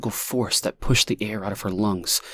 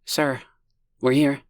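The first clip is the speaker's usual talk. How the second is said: smooth soft voice; 6 semitones higher than usual. A narrator's reading. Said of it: "her words smooth as silvery thread".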